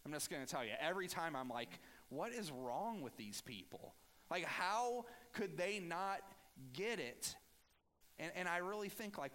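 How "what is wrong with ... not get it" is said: exasperated judgment. Retold or imitated. Preacher venting at the Israelites, exasperated and rising. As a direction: throw up your hands at them. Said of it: "I'm very judgmental toward the Israelites".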